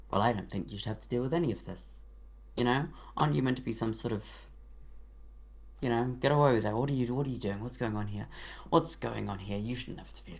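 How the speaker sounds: lightly voiced, bewildered royal mouse; a hint of a puzzled, lordly mouse; confused authoritative mouse king. GM voicing the Mouse King, confused yet commanding. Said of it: "confused, quite confusing, but quite very authoritative voice".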